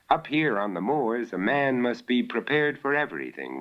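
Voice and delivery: a hint of a sturdy moorland innkeeper; innkeeper George. Innkeeper warning his son by the fire, lightly voiced. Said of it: "remarked George Alderson".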